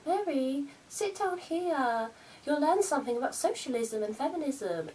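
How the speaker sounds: imitating mum. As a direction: do her mother lecturing. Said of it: "She's always like".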